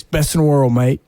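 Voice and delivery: lightly imitated Australian accent; a hint of Australian in a retold quote. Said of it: "do an Australian accent".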